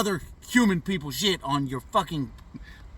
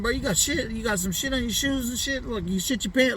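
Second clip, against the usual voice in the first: higher, accusing questions fired at his friend; 7 semitones higher than usual. Retold or imitated. Teen accusing his friend of stepping in shit, higher, pointed. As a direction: play it like you're calling him out. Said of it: "I'm accusing him".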